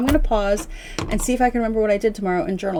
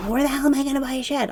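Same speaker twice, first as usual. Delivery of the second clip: fast, higher, mildly irritated mimicry; pissy; 5 semitones higher, faster than usual. Man complains about where to buy a shed, mock pissy. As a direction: imitate a pissy, rushed complaint. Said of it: "he got pissy with me about that".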